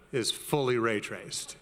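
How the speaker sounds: slow, low trailer-style reveal on "fully"; dramatic reveal. Shown as a demonstration. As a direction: lean on "fully" like a movie trailer. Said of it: "let's kill the lights up front".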